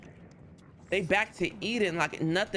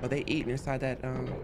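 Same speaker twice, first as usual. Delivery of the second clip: hushed sneaking; 7 dB quieter than usual. Real, not acted. Sneaking through enemy room.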